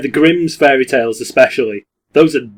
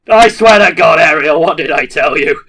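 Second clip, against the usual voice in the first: laughing exasperation; 3 semitones higher, 5 dB louder than usual. Pretend. Mock exasperation with Ariel.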